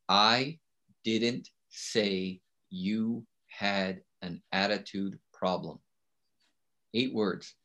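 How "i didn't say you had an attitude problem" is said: each word laid out slowly and softly; quiet, measured dictation of "I didn't say you had an attitude problem"; slow, deliberate reading. Shown as a demonstration. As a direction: dictate it slowly so they can write it down. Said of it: "write down these eight words".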